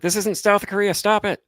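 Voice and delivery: high, loud mock telling-off; retold scolding. Telling a driver this isn't South Korea, high scolding.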